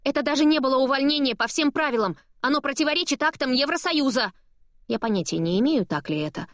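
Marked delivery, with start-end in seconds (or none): 0.0-4.3 outraged protest. A narrator's reading. Chasing boss, outraged protest.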